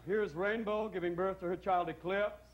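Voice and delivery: slow, mellow narration; mellow film narrator. Acted. Childbirth class film introducing a birth, slow mellow narrator. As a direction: read it slow like a calm hippie film.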